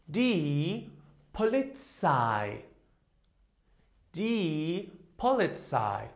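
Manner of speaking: "Polizei" repeated slowly and carefully; slow model word. Shown as a demonstration. Teacher repeating the word for students, slowly. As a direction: stretch out "Die Polizei" for the class. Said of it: "Here's our combination".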